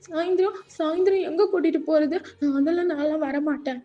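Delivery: plaintively resist going along; a hint of childish whine; lightly voiced tearful junior.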